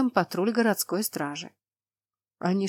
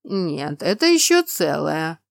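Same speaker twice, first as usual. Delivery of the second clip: slow giant voice; 3 semitones lower, 5 dB louder, slower than usual. Acted. Cyclops answers.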